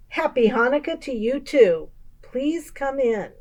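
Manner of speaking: put-on a fussy old grandmother, pleased to have a guest; old Baba Braina. Old woman greets visitor.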